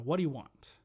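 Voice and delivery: imitated grumpy phone answer; mildly gruff, impatient demand, acted out; grouchy. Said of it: "he's just grouch".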